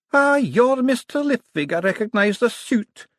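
put-on high, drawn-out old wizard voice; put-on elderly voice, pitched well up. A narrator's reading. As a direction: greet them as a theatrical old academic. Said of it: "said an elderly wizard".

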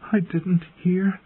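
high, slow, frightened protest; fearful. A narrator's reading. Bran waking to a looming shadow, fearful. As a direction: plead in fear, pitched high. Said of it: "he whispered, trembling in fear".

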